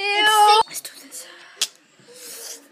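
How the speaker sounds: breathy whisper, bracing. Real, not acted. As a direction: steel yourself in a whisper. Bracing to eat.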